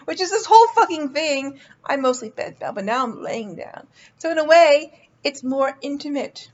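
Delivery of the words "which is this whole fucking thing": laughing through the words; giggling while talking. Real, not acted. Laughing at own show joke.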